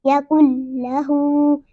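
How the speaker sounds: slow यकुल लहू, joined L, long hoo; merged recitation. Shown as a demonstration. Teacher shows joining kaaf to laam, merged यकुल लहू. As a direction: run यकुल into लहू, hold the ending. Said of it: "इस तरह से".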